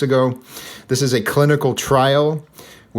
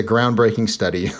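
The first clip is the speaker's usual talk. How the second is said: sarcastic. Real, not acted. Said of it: "I'm being sarcastic".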